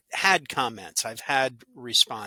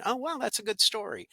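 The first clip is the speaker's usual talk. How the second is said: much higher pitch, mock wow; imitated delight; 9 semitones higher than usual. Listeners discovering the podcast, imitated delight. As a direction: gush like a happy new listener. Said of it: "those people going".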